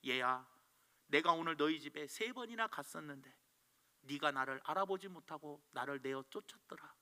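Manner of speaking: a hint of a tender Lord explaining; gentle Jesus.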